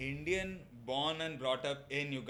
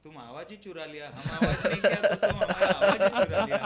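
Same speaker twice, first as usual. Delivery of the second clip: fast, hushed scolding in a put-on voice; Bhutan character voice; 5 dB louder, much faster than usual. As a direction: play a grumbling small neighbour.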